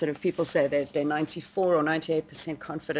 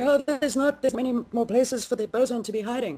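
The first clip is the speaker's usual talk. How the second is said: mock freaking out; 7 semitones higher than usual. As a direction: imitate people fretting in a raised, hammed-up voice. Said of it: "people have been freaking out and going".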